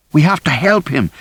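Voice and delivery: high, frantic cry to help; pleading, rising toward a shriek; desperate plea. A narrator's reading. Rosie struggling to reach David.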